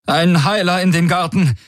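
high, shaken call for help; trembling call. Acted. Tari calls for a healer over her comm, high and shaken. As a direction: cry out in shock into the comm. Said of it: "rief sie mit zitternder Stimme".

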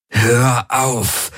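he snaps at the Helix to stop; barked command. A narrator's reading. In pain, he orders the Helix to stop, sharply. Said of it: "herrschte er die Helix an".

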